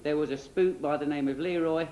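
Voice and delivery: comic storytime narration; children's storyteller. Acted. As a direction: tell a cheeky tale as if to kiddies.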